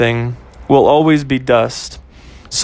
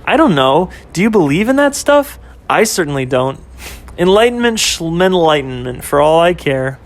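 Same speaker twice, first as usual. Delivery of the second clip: put-on girlfriend Ashley; 2 semitones higher than usual. Narrator voices girlfriend Ashley.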